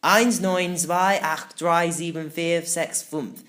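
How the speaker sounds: slow, odd little crab counting in German. Acted. Little crab calling out the code, slow and odd. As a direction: count each number slowly like a tiny crab. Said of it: "A little voice beckoned".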